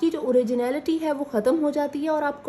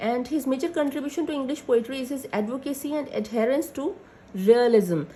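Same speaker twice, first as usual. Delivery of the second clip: slow dictation; much slower than usual. Acted. Dictating notes slowly.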